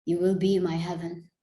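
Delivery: spoken-word poem, measured and deliberate phrasing; poetry recital. Acted. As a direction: recite it as a poem, letting phrases land between pauses.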